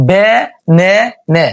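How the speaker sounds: বে নে নে with e in every syllable, spaced out; wrong reading of the word. Shown as a demonstration. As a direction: test বে নে নে one syllable at a time. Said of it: "বে না না শব্দটা উচ্চারণ সঠিক হয় নাই".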